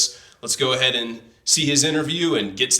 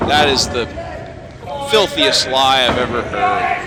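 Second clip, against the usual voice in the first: indignant shout; 4 dB louder than usual. Acted. Accuses Andre of lying.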